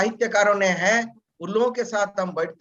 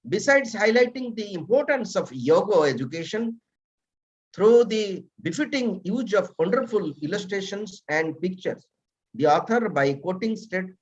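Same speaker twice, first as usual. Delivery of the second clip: formal bio reading; 2 semitones lower, much slower than usual. Acted. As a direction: read the speaker's biography out formally, word by word. Reads a guest's written biography aloud.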